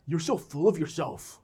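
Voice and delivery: a giggling put-down; teasing laugh. Retold or imitated. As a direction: tease dad through a chuckle. Son mocking dad.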